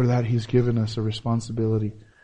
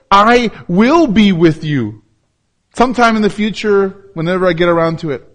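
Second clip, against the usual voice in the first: mock casual promise; 5 semitones higher, 7 dB louder than usual. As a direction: parody a lazy promise. Mocking a delayed promise.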